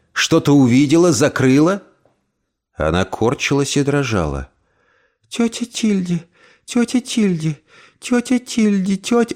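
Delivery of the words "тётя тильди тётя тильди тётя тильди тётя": put-on hushed, high, scared girl voice; frightened girl. Emily calls her aunt in terror, hushed and high. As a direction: whimper the name. Terrified girl repeats name.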